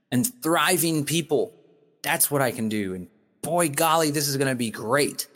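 rising, inspired speech, lightly done; hopeful. Retold or imitated. Urging viewers toward hope, lightly inspired build. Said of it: "I encourage you to say".

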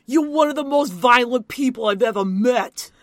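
put-on angry Matt in a Boston accent. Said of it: "you have to try the Boston accent".

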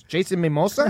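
lightly imitated Spanish-accented question; girlfriend's Spanish accent. Girlfriend querying the dream, lightly imitated Spanish accent. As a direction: mimic her puzzled Spanish-accented question. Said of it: "she's got the accent and everything".

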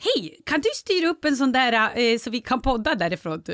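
high-pitched imitation of her own request; put-on request voice. Podcaster re-enacting her inquiry to a studio, high put-on voice. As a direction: ask in an exaggeratedly high voice. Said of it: "är det här din röst?".

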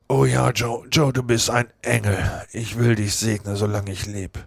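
put-on relieved drunk blessing his false friend; grateful Potter. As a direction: thank him like a saviour.

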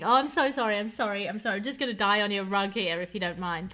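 mock profuse British apology; hammed-up British politeness; overly apologetic Brit. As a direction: apologise over and over, too polite. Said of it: "the most British thing".

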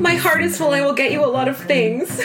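high, giggly mock love vow; mock dramatic vow. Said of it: "we're reading the D M".

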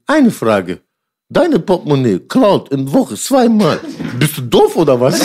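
put-on mother's Turkish-accented broken German; halting immigrant German, slow. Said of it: "mit gebrochenem Deutsch".

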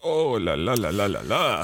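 sing-song oh là là, swooping pitch; playful dismay. Real, not acted. Teacher reacting to a tricky French sentence, playful dismay. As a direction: reel comically from a mouthful of French.

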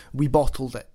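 put-on a light Scottish accent on we bottled it. Guest voicing Scottish voters' mood, mock Scottish accent. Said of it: "I'll try and put it in my best, uh, Scottish accent".

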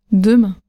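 "demain" low, accent on MAIN; last-syllable stress. Shown as a demonstration. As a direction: deMAIN with a light final drop. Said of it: "la dernière syllabe qui est accentuée".

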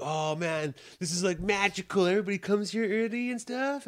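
rising, wide-eyed wonder; imitating his younger amazed self; awed kid. Kid arriving early at school, amazed.

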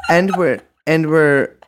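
halting announcer-like start, on the edge of laughter; put-on intro voice. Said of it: "I'm doing regular voice now".

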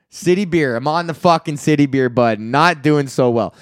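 a hint of a sad sack on city beer; lightly voiced hoser. Voicing a city beer buddy.

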